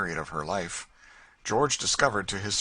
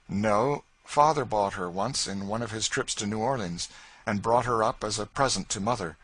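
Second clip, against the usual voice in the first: lightly voiced young gentleman; 4 semitones higher, 4 dB louder than usual. George explains the purchase.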